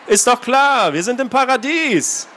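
selbstgefällig; smug certainty. Acted. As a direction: gang leader bragging about paradise. Gang leader boasting to newcomers.

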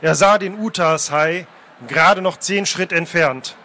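measured, dramatic reading aloud; story narration. A narrator's reading. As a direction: narrate the sea chase with deliberate pauses. Reads a novel scene aloud.

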